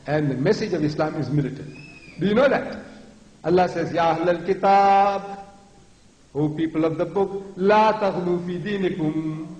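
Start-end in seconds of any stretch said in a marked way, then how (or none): 3.9-9.5 slow, drawn-out, resonant proclamation; forceful commanding recitation. Shown as a demonstration. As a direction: proclaim it with weight, stretching the long vowels. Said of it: "That's how Allah talks".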